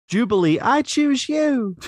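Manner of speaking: Pokemon trainer call. Pretend. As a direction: call out like an anime hero. Pokemon trainer throw parody.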